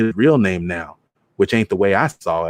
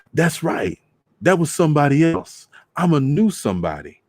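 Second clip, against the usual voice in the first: higher, sheepish self-excuse; lightly voiced uncle squirming out of it; uncle's voice; 7 semitones higher than usual.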